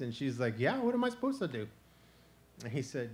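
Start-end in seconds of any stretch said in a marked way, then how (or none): 0.6-1.7 exasperated. Acted. Possum defends how she travels.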